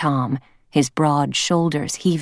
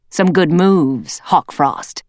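louder, slow approving leader; leader cat voice; 4 dB louder, slower than usual. Acted. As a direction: praise him like a stern leader. Leader praises a warrior.

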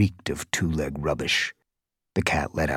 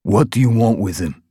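louder guard's demand; 4 semitones higher, 7 dB louder than usual. A narrator's reading. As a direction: press them hard for an answer. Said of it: "he demanded".

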